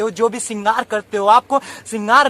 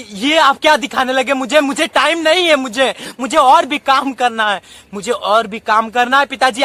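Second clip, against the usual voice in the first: irritated son. Acted. Busy son waving off his pleading father, irritated. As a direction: brush the old man off, annoyed.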